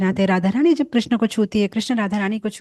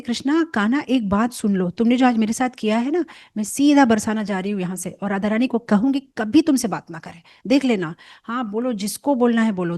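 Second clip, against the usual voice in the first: angry. Acted. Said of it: "इतनी गुस्सा हो जाती है".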